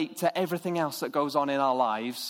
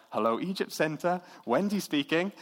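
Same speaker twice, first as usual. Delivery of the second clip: posh phone voice. Retold or imitated. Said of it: "answers the phone with a posh voice".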